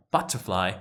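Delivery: "butterfly" with a soft unstressed "er", r dropped; accepted variant. Shown as a demonstration. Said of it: "all these three are fine".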